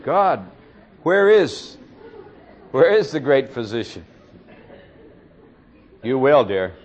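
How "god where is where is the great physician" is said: imitating a plea. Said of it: "And you cried out and said".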